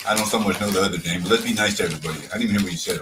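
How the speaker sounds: chewing while talking; mouth full. Real, not acted. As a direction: talk through a mouthful. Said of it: "I'm too busy chomping".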